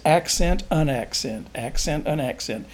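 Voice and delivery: "accent" a touch stronger, "unaccent" falling away; alternating accent. Shown as a demonstration. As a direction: lightly lean on "accent", let "unaccent" drop. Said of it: "it really and truly is just".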